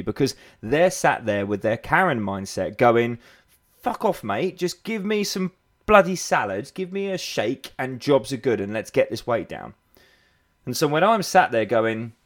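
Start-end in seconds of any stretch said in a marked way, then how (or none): 3.8-9.7 higher, brushing-off client voice; mock dismissive client. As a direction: imitate a client waving the coach away.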